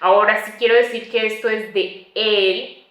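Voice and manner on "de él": "de él" en dos palabras; dos palabras separadas. Shown as a demonstration. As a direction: separa "de" y "él", sin contraer. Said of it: "ahí sí es separado". ("de él" separado, con las dos vocales)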